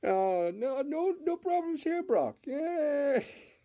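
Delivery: very high puppet voice with drawn-out "yay". Acting out how Terrorizer and the others were annoying Brock, in a Kermit the Frog voice. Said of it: "doing the uh, Kermit voice".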